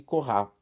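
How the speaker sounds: "Corá" stressed on the last syllable; "Corá" with French end stress; final-syllable stress. Shown as a demonstration. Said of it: "Sílaba tônica tá no final".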